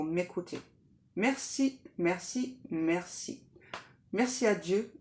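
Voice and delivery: murmured prayer fading toward each merci; protection prayer. Real, not acted. Protection prayer said three times.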